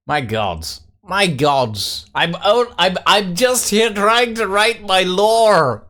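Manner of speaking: British accent getting stronger; exasperated protest in British English; increasingly British. Real, not acted. Streamer protesting while trying to write lore, increasingly British. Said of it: "You're turning more British by the second".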